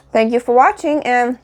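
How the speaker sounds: talking through a mouthful; words round a bite of food; mouth full. Real, not acted. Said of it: "so I'm talking with my mouth full".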